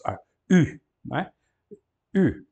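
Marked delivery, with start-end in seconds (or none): 2.1-2.4 U said as a rounded French ü; a single model U, lips rounded tight. Shown as a demonstration. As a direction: purse the lips for the U. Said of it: "o U molhado".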